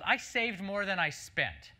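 slow, savoring each word; proud customer. Retold or imitated. Customer proudly telling marketers her savings, slow. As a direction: let the punchline land slowly. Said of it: "she looks at us and goes".

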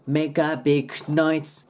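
"Make a" run together as one word; slow "Make a big noise", joining "Make a"; linked pronunciation. Shown as a demonstration. Teacher showing where words join, slow linked model. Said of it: "make aでくっつけて".

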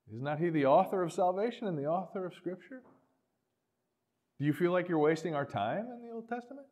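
soft, gentle questioning; a pastor gently questioning a deacon; kindly. Retold or imitated. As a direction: ask him as kindly as you can. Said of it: "as kindly as I could muster".

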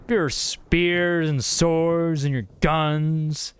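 slow, lingering list; playful mock chiding. Player teases enemies about their weapons, playful mock chiding. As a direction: linger indulgently on each weapon.

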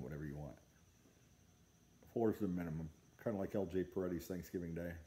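talking around pipe stem; speaking while puffing pipe; pipe in mouth. Real, not acted. Seen 1: pipe raised to mouth at 0.6, hand covers it, smoke.

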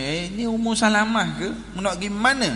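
lightly acted stranger asking; imitating curious passer-by. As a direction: call out a surprised question to a traveller. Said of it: "orang tanya".

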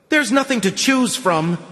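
high, strained exclamation; exclaimed. A narrator's reading. Man tells the girl he has no choice, exclaiming. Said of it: "the man with the shaved head exclaimed".

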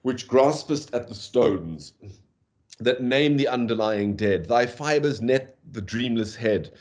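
slow, measured poetry reading; poem reading. Shown as a demonstration. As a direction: read the verse slowly and evenly. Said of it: "I'll read it out slowly".

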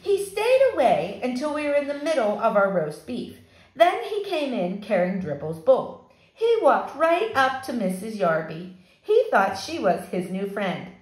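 lively read-aloud for a fourth grade class; story narration. A narrator's reading. Teacher reading a chapter book to her fourth graders, animated. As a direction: tell the story to the kids, brightly.

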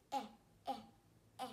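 "Eh" as a short, separate vowel; short E sound. Shown as a demonstration. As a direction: sound out "Eh, eh, eh" for the letter E.

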